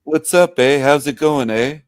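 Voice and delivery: mock Canadian. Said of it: "who is it?".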